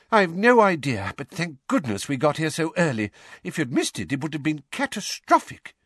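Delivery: lightly voiced hurried father figure; hurried Mr Weasley. A narrator's reading. Mr Weasley answering Harry mid-run, lightly anxious. Arthur answering while running.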